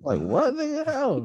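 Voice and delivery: high, slow laughing disbelief. Real, not acted. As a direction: ask it through laughter.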